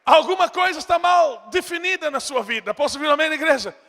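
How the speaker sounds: loud, high call to the church; full-force preaching. Real, not acted. Preacher calling the church for an amen, loud and high. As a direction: rouse the congregation.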